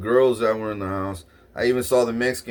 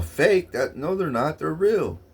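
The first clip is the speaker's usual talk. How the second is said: high, indignant clerk's denial; a hint of a flustered clerk; mock denial; 5 semitones higher than usual. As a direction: play the clerk protesting, pitched up.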